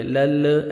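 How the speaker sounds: "لل" with a stray short vowel after the last lam; bounced lam. Shown as a demonstration. Teacher showing the mistake, "لل" with a bounced lam. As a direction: wrongly shake the final lam of "لل". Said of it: "ایسے نہیں پڑھیں گے".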